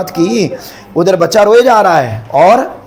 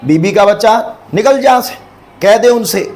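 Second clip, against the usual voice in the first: sharp, raised voice; irritated master; 4 semitones higher than usual. Acted. Sick husband throws servant out.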